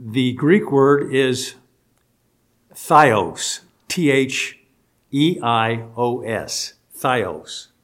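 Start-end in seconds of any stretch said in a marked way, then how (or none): 2.7-3.6 Theos as THIGH-ohs; pronunciation of Theos. Shown as a demonstration. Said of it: "is how it's pronounced". 6.9-7.7 Theos as THIGH-ohs; pronunciation of Theos. Shown as a demonstration. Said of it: "is how it's pronounced".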